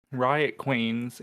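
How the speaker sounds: ordinary talk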